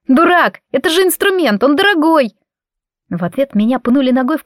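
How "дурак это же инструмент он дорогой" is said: screaming. A narrator's reading. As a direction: scream at him to save the violin. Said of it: "Я закричала".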